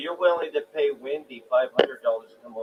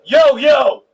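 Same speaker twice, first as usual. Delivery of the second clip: tin can sound; 12 dB louder than usual. Real, not acted. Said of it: "You sound like you're in a tin can".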